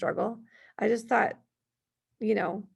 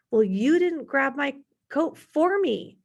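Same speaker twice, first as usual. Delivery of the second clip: slow, louder, higher sarcastic retort; mock a cheeky seven-year-old talking back; sassy child comeback, a touch hammed-up; 5 semitones higher, 5 dB louder, slower than usual. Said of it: "him talking to me that way and being sarcastic".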